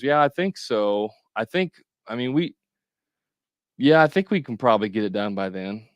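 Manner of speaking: waver and hedge like you're unsure; unconfident answer. Shown as a demonstration. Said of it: "Does that sound confident?".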